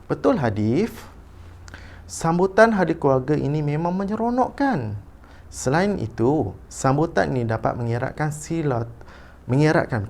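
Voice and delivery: teacher's clear storybook reading; intoned read-aloud for pupils to copy; expressive model reading. Shown as a demonstration. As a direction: read a school passage aloud with lively intonation. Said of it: "membaca dengan intonasi".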